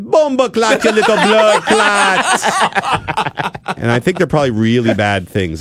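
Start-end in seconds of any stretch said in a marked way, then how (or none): 0.0-3.5 much higher, laughing Jamaican cursing; mock Jamaican swearing. The teen answering his mom, laughing mock Jamaican curse. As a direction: fling the curse back laughing. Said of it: "And I'd be like".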